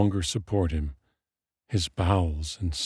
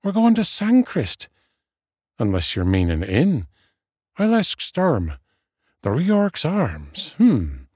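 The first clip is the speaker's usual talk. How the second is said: high, swooping, musing voice; puzzled friend; 7 semitones higher, 3 dB louder than usual. A narrator's reading. Friend mistaking a god for an inn, high puzzled voice.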